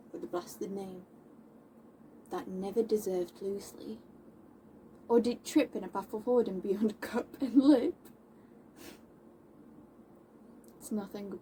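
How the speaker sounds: measured theatrical reproach with long pauses; Moll. Acted. Moll defending women's good names, controlled reproach. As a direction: put the question to him, then press it. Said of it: "I'll be playing Moll".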